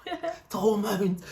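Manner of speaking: breath-only mock whisper; hushed, very British discreet whisper. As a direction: mouth it very quietly, as a secret explanation. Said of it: "I'm whispering".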